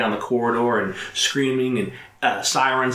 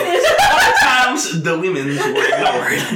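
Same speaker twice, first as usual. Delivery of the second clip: mock slow; 5 semitones higher, 5 dB louder, slower than usual.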